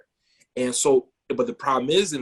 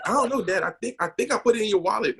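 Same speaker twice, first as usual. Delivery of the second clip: imitated young son; 8 semitones higher, faster than usual. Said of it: "And he's like".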